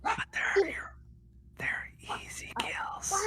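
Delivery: eerie tempting whisper. Pretend. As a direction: breathe it like a voice inside the head. Voice in head tempting.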